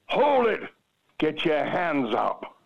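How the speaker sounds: high-pitched shouted order, drawn out at the end. Retold or imitated. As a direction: call it out high like an armed guard. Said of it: "Say it louder".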